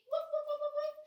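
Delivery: high, loud, rapid woofs; playful dog bark. Pretend. Teacher acting out the dog for kids, high barking. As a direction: yap like an excited little dog.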